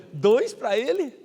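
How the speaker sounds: slow, half-laughing protest; laughing mock complaint. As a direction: joke through a laugh. Envious joke about the twins.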